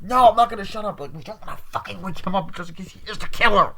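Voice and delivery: high, loud, defiant retort; hammed-up argumentative yell; mock shouting back. Girl argues back while calling.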